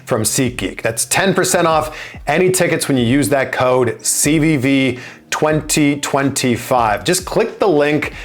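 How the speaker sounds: upbeat sponsor read over music; podcast ad-read delivery. Acted. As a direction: sell the tickets app like a host's ad. Host reads sponsor ad.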